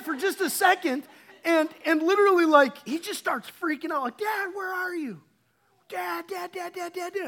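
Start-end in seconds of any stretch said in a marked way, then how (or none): 4.2-7.3 put-on higher, calling out like a lost little boy; mock frantic cry for Dad; imitating panicked child. Son panicking, lost in store.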